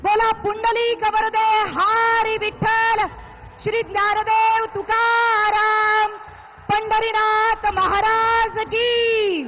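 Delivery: slow drawn-out call to the crowd; rally slogan call. Real, not acted. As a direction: call each name out for the crowd. Emcee leads crowd slogans. (नारे लगाते हुए पुकार)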